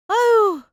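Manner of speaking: high loud exaggerated sigh of complaint; theatrical groan. Mother-in-law dramatizes her itchy throat, hammed-up groan. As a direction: ham up the suffering. Mother exclaiming about dust.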